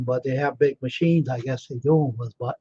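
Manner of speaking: words stretched by a yawn. Real, not acted. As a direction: talk through a yawn. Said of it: "sorry about the yawning bit".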